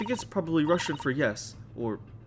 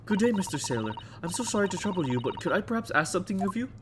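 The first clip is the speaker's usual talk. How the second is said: higher, sweetly polite request; polite lady voice; 6 semitones higher than usual. Acted. Maid politely asking the sailor a favour, higher and sweet. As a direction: put on a dainty well-mannered voice.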